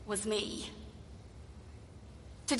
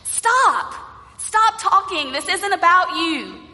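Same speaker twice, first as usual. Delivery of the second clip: impatient crowd, a touch higher; shushing crowd; 4 semitones higher than usual. Acted. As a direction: tell him off to hush him. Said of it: "told him to hush".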